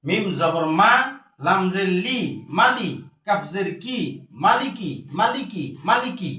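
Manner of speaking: rhythmic Quran-class recitation drill; spelling drill. Shown as a demonstration. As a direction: spell with rising ends, then repeat the word in falling lilt. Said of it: "একবার বানান তিনবার উচ্চারণ করে".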